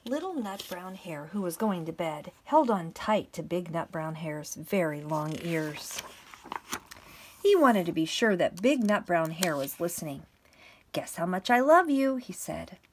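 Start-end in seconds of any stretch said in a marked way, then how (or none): 0.1-10.3 measured, projected storybook reading; story narration. A narrator's reading. Teacher reading a bedtime picture book to pupils, story narration. 10.9-12.2 put-on higher, louder storybook child-hare voice; little hare. Little hare asking big hare at bedtime, eager little voice.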